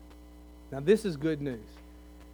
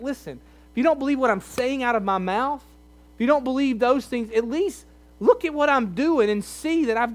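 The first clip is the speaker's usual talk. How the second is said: a mild pleading Jesus, higher; 4 semitones higher than usual. Retold or imitated. Jesus begging unbelievers to look at his works, pleading. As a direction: urge them, half-begging. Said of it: "He's pleading with them".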